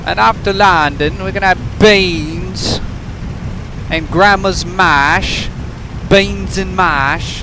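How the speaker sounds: high, slow hammed-up British accent; mock British accent. Slow, hammed-up British accent talking about British food. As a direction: drawl it out as a cartoon Brit. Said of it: "How is my British accent".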